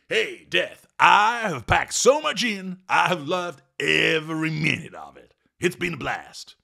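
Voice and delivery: high, loud, slowed joy; exuberant dude. Acted. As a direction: brag about a life loved.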